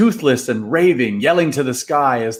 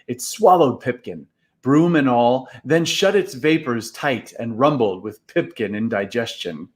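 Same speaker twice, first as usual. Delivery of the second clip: usual speaking voice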